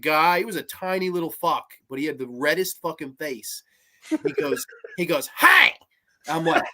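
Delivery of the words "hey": loud, high mock yell; sudden high-pitched burst; retold angry shout. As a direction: imitate an angry man barking for attention. Acting out angry man confronting him.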